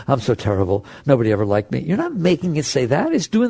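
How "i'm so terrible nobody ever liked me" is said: self-pitying voice. Retold or imitated.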